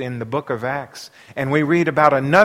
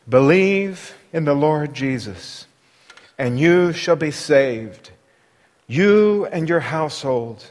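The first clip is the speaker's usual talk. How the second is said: calm answer. Acted. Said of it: "They said".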